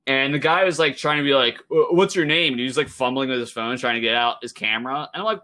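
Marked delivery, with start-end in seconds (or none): 1.7-2.5 higher, stammering mock demand for a name; flustered demand. Imitating the flustered worker demanding a name. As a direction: play the worker fumbling for his phone.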